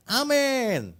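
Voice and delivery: high mock congregation amen; retold shout of amen. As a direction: call out amen like the crowd. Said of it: "Semua orang teriak".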